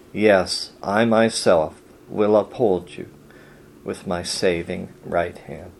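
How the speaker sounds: soft, tender reading of reassurance; reassuring scripture reading. Acted. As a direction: read it as a quiet comfort to the frightened. Reads comforting verses of God.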